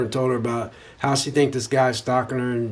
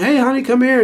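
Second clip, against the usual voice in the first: high, louder call to his wife across the room; calling across a party; 8 semitones higher, 4 dB louder than usual. Retold or imitated. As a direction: beckon her over over the party noise. Husband calls wife over at party.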